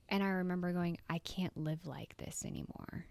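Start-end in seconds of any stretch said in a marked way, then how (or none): 1.1-3.0 a hushed whisper to herself; whispered resolve. Retold or imitated. Telling herself she is done, in a whisper. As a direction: breathe it out like a private vow. Deciding to change her life.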